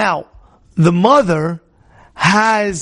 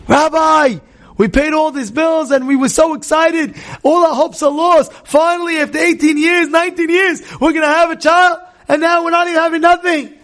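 pleading lament; 8 semitones higher than usual. Retold or imitated. Couple laments to the rabbi.

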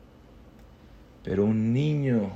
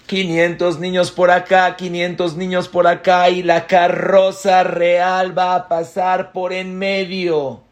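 loud proclamation; 8 semitones higher, 10 dB louder than usual. Acted. Officials announce the royal parade, proclaiming loudly. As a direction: call it out high and loud like a herald.

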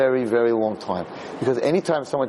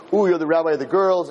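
lightly mimicked taunt; mild mocking; 3 semitones higher, 3 dB louder than usual. Man poking fun at the rabbi in public, mildly mocking. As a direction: tease in mock awe, starting on a drawn "ooh". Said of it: "the guy was making fun of me".

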